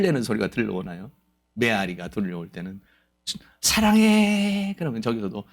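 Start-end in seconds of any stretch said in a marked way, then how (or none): 3.6-4.7 high, very slow call of love; drawn-out call. Retold or imitated. Preacher calling love across a mountain, slow and high. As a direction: stretch it out across the valley.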